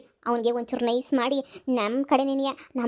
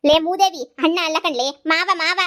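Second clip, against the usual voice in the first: scolding correction; 2 semitones higher, 5 dB louder than usual. Acted. Mother correcting daughter sharply.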